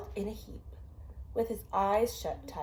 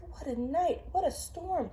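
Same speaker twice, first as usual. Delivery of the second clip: lightly voiced mole; 8 semitones higher than usual. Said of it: "Mole mutters".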